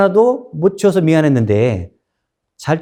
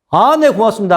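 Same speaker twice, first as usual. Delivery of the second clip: bright, raised, glad thank-you; cheerful thanks; 7 semitones higher, 4 dB louder than usual. Retold or imitated. Butcher thanking the respectful nobleman, cheerful. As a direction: thank him with a happy lift. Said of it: "하고 웃으면서".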